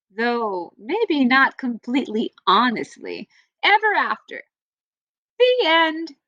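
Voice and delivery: lively storybook read-aloud for a class; reading to children. Acted. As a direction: read it like story time for kids. Teacher reads fairy tale aloud.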